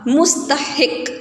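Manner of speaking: مستحق drawn out slowly in syllables, "mus-ta-hiq"; careful vowel marks. Shown as a demonstration. Teacher models the word for students, مستحق slowly as "mus-ta-hiq". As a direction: sound out مستحق slowly with u, a, then i. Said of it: "ہے کے نیچے زیر".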